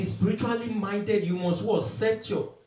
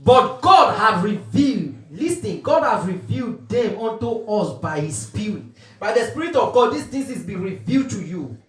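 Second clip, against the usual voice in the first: loud, drawn-out scripture proclamation; preaching; 3 dB louder than usual. Real, not acted. Preacher proclaiming God's revelation to the congregation, emphatic preaching. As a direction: declaim each phrase with forceful emphasis, then let it fall.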